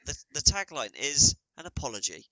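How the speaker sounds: podcast host pretending partner vanished, mock announcer voice; mock solo podcast intro. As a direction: pretend to host alone, worried. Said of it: "Be like".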